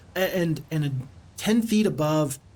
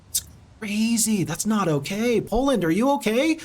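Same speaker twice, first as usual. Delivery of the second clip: alarmed disbelief; 6 semitones higher than usual. Real, not acted. Shocked at Poland floods.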